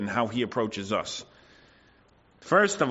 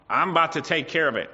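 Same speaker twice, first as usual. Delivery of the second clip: accusative tone; 3 semitones higher, faster than usual. Retold or imitated. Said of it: "accusative tone of voice".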